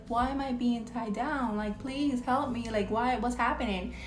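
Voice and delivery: mock tearful plea. Retelling a restrained boy asking for help, mock tearful. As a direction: imitate a confused little boy pleading. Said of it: "he starts crying".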